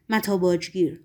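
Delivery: «متا باجگیر» with a falling, affirmative tune; statement, not question. A narrator's reading. Governor names the man who took the body, «متا باجگیر» falling as a statement. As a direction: state «متا باجگیر» as a known fact, ending down. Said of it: "لحن صحبت پیلاتس نه سوالی که ایجابی".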